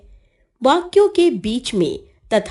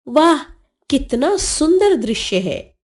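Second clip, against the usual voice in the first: admiring exclamation; 3 semitones higher than usual. Shown as a demonstration. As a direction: marvel lightly at a lovely view. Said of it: "आश्चर्य आदि भावों को प्रकट करने".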